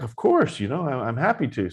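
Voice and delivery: eager to go see the Buddha; happily agreeing to the call; delighted. Retold or imitated.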